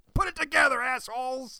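high, loud voice, nearly screaming. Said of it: "I was nearly screaming at the screen".

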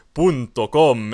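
loud, big broadcast TV announcer voice. Imitating a Spanish TV show announcer: imitating announcer's deep voice. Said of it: "the announcer's all deep voice like that".

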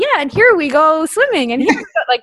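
put-on high, frilly, little girlish voice. Retelling how a campus tour was interpreted aloud: frilly little voice. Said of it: "like a frilly little voice".

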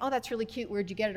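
ordinary talk

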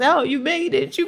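put-on tipsy tearful joy. Retelling how she greeted the speaker's arrival, imitating drunk happy crying. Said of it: "sounding drunk".

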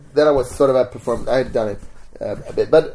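normal talking voice

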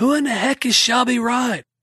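very high, baffled, bewildered yell, acted out. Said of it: "And I yelled at her".

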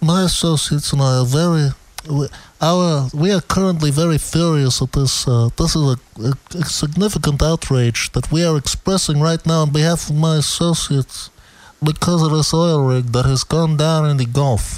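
ordinary delivery

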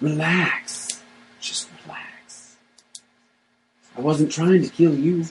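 rough, gravelly put-on voice. Voicing the man dressed like a jack-o'-lantern: gravelly voice. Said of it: "but gravelly".

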